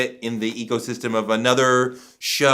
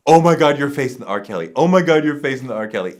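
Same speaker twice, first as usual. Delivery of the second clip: louder, gushing oh my God; excited fan; 3 semitones higher, 5 dB louder, much faster than usual. Retold or imitated. People on the street gushing to the interviewer, excited. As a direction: mimic a starstruck fan. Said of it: "was constantly like".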